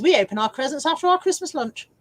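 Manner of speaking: put-on lightly posh English accent. Streamer reading a viewer's comment in posh tones. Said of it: "I'm going to do that voice".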